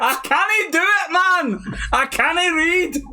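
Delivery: high-pitched, exasperated Scottish wail; Scottish accent. Pretend. Reader losing the Geordie accent, slipping into high-pitched Scottish. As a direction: slip helplessly into high Scottish. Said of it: "See, I'm going Scottish".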